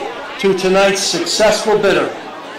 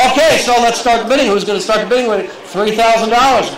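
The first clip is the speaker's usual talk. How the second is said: auctioneer. Acted. Auctioneer calling for bids.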